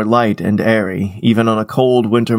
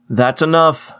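yelled; 5 semitones higher than usual. Acted. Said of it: "I yelled".

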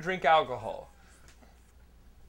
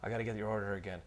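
waitress excuse; 6 semitones lower, 9 dB quieter, faster than usual. Retold or imitated. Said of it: "She then goes on to".

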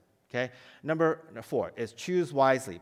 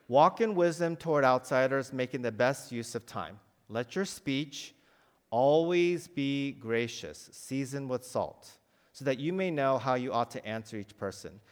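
scripture reading; 2 semitones lower than usual. Acted. Reads Colossians to class.

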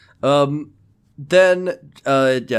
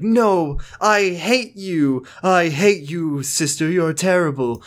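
mock hatred; 3 semitones higher, slower than usual. Acting Jesse fighting with sister.

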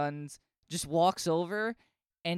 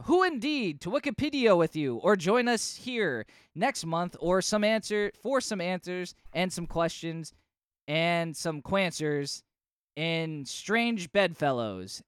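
comic narrator voice. Retold or imitated. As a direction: read the caption like a cheesy announcer. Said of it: "And it says".

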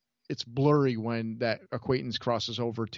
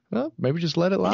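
lightly voiced Sally, a bit higher and louder; a hint of Sally soothing; mock Sally reply; 8 semitones higher, 5 dB louder than usual. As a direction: play her calming him down. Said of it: "that's how Sally responds".

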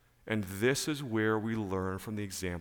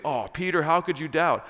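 loud, raised-pitch imitation of a reproach; mock scolding; 7 semitones higher, 7 dB louder than usual. Sunday school teachers voicing Jesus to Peter, mock scolding. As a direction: act out a scolding of a doubter. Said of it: "I don't think he was scolding Peter".

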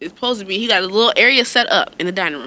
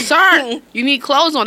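mock-stern mom; 7 semitones higher, 3 dB louder, slower than usual. Mother scolding son.

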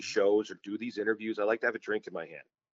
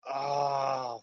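much higher, loud, slow crying wails of embarrassment; mock meltdown; 10 semitones higher, 3 dB louder, slower than usual. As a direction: wail like you're dying of shame. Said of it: "I'm having a nuclear meltdown".

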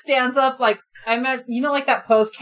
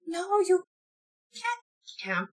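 high, slow creature voice; a tiny guardian refusing them; much higher, slow broken English; Jake creature voice; 9 semitones higher, slower than usual. Acted.

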